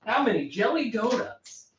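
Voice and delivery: slow monotone robotic voice. Pretend. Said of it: "Monotone robotic voice possible".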